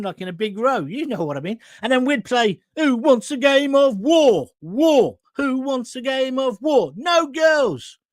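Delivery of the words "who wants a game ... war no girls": a kid's mock shout, slower at the start; playground call. Kids in the playground calling for a game, mock shout.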